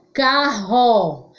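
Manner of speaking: "Carro" in two syllables, RR like H; strong R. Shown as a demonstration. Teacher analyses the sound for doubters, strong h-like RR in "Carro". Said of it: "ró é forte".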